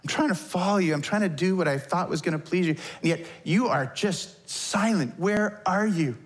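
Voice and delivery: mildly anguished questioning; pleading prayer. Acted. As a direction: plead with someone who won't answer. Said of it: "in the form of a prayer".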